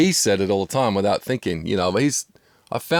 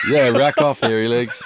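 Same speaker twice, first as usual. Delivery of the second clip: Aussie slang; 3 semitones higher, 4 dB louder than usual. Shown as a demonstration. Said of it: "is what you would normally say".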